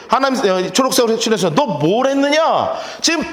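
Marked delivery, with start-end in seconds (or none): 1.6-2.7 raised, drawn-out exasperated question; 답답한 마음으로. Acted. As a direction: demand it in mild frustration. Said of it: "답답한 마음으로 다시 물어보는". (답답해하며 다그쳐 묻기)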